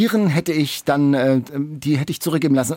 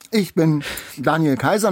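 mouth full. Real, not acted. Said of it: "noch mit vollem Mund".

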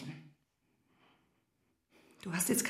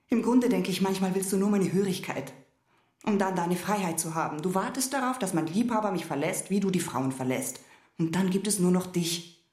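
vorwurfsvoll; 2 semitones higher than usual. Acted. Vorwurf steigert sich im Streit.

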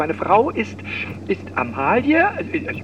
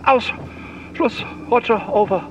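mock radio sign-off. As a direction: end it like a radio operator.

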